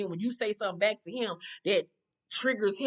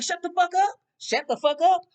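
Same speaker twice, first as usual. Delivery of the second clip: loud, higher angry shout; retold angry yell; 8 semitones higher, 7 dB louder than usual. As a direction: yell it right over her. Ex yelling in quarrel.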